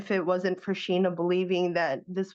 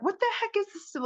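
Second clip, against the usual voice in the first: confused surprise; 13 semitones higher, 4 dB quieter, faster than usual. Retold or imitated. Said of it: "And I'm like".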